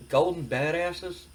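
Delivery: slow, questioning repeat with rising end; doubtful echo. Acted. Wrestler questions his partner's shirt slogan, doubtful echo. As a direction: echo it back as a drawn-out question. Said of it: "Billy Gunn's just like".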